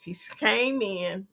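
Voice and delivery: came in said slowly and quietly; slow, drawn-out description. Shown as a demonstration. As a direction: spell out came in slowly, softly, for a visual. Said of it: "I'm giving you a visual best I can".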